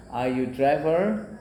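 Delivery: Are you driver? slow, "driver" rising; slow question. Shown as a demonstration. Teacher demonstrates the grammatical question slowly. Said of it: "bahasa Inggrisnya itu dibalik".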